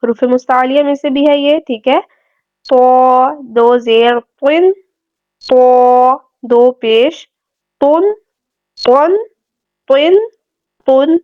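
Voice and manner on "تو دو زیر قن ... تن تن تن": تو and تن with a full, thick consonant; full heavy letter. Shown as a demonstration. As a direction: spell out تو slowly, held and heavy. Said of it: "پورا اور موٹا پڑھیں گے اس کو". (تو اور تن پورا اور موٹا)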